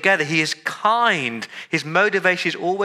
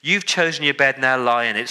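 angry God rejecting; 4 semitones higher than usual. Retold or imitated. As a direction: voice God snapping in fed-up anger. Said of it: "we expect God to say".

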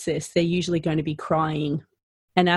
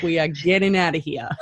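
laughing mum order. Retold or imitated. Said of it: "It's like".

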